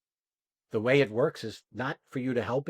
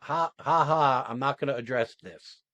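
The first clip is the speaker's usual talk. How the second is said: mock deflecting laugh. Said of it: "is to go".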